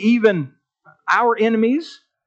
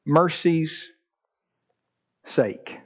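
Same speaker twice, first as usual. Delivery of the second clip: humble plea; much slower than usual. Acted. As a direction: let the prayer sink into humility. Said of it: "He said".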